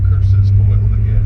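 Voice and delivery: low, grumbling villain defeat; defeated panto villain. Acted. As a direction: mutter it like a foiled baddie. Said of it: "A villain".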